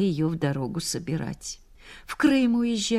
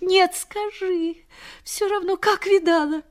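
anxious; 11 semitones higher than usual. Retold or imitated. Sick mistress pressing anxiously.

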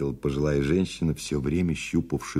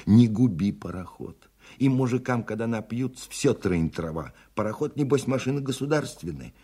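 raised pitch, indignant countrywoman; scolding village woman; 7 semitones higher than usual. Acted. Woman with onions scolds drunken helmsman, raised indignant voice.

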